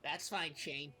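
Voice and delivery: distant voice across a crowd; faint, from far off across the room. Acted. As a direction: call back from across the room. Calling back from far off.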